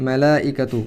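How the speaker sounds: মেলাইকাতু read out slowly in careful Arabic; Arabic plural. Shown as a demonstration. Teacher reading the Arabic plural to the class. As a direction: spell out মেলাইকাতু syllable by syllable. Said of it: "তখন এটা হয়ে যায় এরকম".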